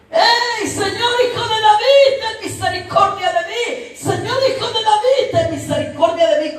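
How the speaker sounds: high-pitched desperate plea of a blind man; crying out. Acted. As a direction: call out high over a noisy crowd. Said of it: "él comenzó a gritar". (clamando a gritos con voz aguda)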